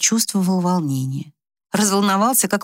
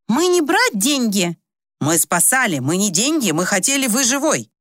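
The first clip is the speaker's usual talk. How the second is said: higher, insistent broken Russian protest; offended young Turks; 4 semitones higher than usual. Acted. The janissaries refuse the rich foreigner's money, higher and hurt. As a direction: push the money away, hurt and earnest.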